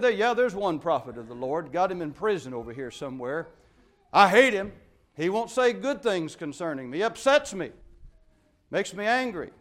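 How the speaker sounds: a lightly voiced complaining king; a hint of a petulant king; grumbling king. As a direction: play Ahab sulking about the prophet. Preacher voices King Ahab complaining.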